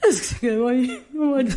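half-sobbing complaint; mourning a street dog; teary lament. Retold or imitated. Recalling a stray left behind, teary. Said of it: "me voy dos horas sufriendo".

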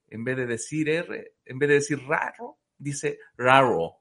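reading out a joke. Acted. Host reads out a comedian's joke.

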